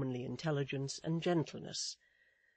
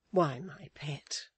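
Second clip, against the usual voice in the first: gentle nurse; 3 dB louder, slower than usual. Acted. Richards answers the pleading child, gentle nurse. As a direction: answer the child slowly and tenderly. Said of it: "said Richards".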